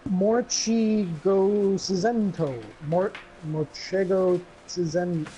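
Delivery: "Morchigosento" sounded out very slowly syllable by syllable; careful name spelling-out. Real, not acted. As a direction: stumble slowly through "Morchigosento". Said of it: "this is hard to pronounce".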